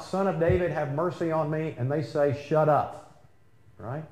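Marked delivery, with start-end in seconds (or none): 0.0-1.8 higher-pitched mock cry for mercy; retold crying out. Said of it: "Bartimaeus cries out". 2.5-3.2 retold hushing command. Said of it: "they told him to quiet down".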